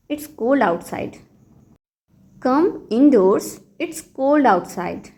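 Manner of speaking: very slow, teacherly model phrase; slow model sentence. Shown as a demonstration. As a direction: spell it out slowly for learners. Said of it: "तो इस बात को English में कहिए". (बहुत धीमे, सिखाने वाले अंदाज़ में)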